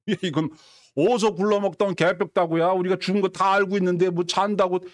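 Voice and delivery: run-on scornful grumble; scoffing. Acted. Mourners scoffing at Jesus's claim, mildly derisive. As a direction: dismiss it with mild mockery. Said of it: "비웃었다".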